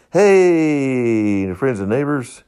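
a hint of a pulpit preacher; preacher greeting. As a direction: lightly call out to the congregation. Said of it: "and I'd get in my pulpit".

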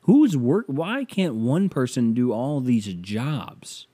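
high baffled outburst. Retold or imitated. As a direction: ask it like you can't believe it. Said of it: "And I'm like".

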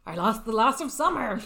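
hammed-up teenage complaint; playful woe-is-me protest; mock lament. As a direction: wail it lightly, for comic effect. Teen laments his lost summer.

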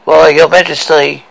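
ghostly mirror voice; spooky voice. Acted. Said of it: "ghostly face and a spooky voice".

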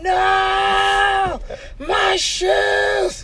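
high, drawn-out mock cry of dismay; hammed-up high-pitched lament; mock wail. Retelling losing his shoes.

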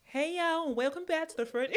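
put-on a half-hearted American accent, laughing; hosting in a wobbly fake American accent. Podcast host greets listeners in a shaky mock American accent. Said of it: "I don't know what accent you're doing right now".

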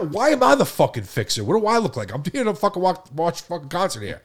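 high, indignant re-enacted protest; mildly hammed-up exasperated complaint; retold exasperation. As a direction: protest being handed someone else's problem. Retelling own exasperated protest.

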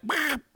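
short repeated silly sounds; soft little mock noises; imitated weird noise. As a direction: mimic his bumping noises. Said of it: "makes all these weird noises".

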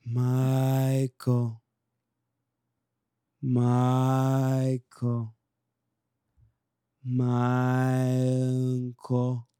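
extremely drawn-out, level intoning; slam poetry reading. Acted. Poet intoning the birthday friend's name, long stretched syllables. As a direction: stretch the name slowly on one held note. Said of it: "Do you want me to do a reading".

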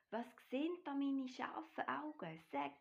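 high-pitched wonder; excited calling. A narrator's reading. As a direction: exclaim at an astonishing sight. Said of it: "ruft der kleine Bär". (hoch und staunend gerufen)

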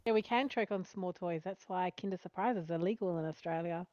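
lisping around a tongue ring; slightly slurred lisp on the s sounds. Real, not acted. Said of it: "it's my lisp".

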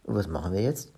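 mildly puzzled question; a touch of bewilderment; confused. Acted. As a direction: ask a little helplessly, at a loss. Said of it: "fragte verwirrt".

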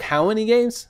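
high incredulous question as the rude agent; imitating the agent's sharp disbelief; mock call-center lady. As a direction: ask it like you can't believe the number. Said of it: "she, she was like".

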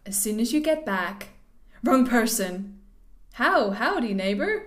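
playful American texter voice; put-on American accent. Replying as the texted neighbour, American accent. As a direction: answer as an American character. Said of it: "apologise there for the accents".

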